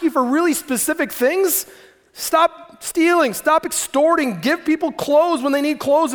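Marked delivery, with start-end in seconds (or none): 2.1-6.1 slow, deliberate commands. Retold or imitated. God spelling out his commands slowly to listeners. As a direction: stop stealing, each word spaced out.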